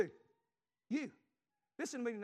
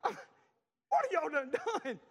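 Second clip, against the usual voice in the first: drawn-out dismay; 7 semitones higher, 8 dB louder, much slower than usual. Retold or imitated. Father's dismayed reaction.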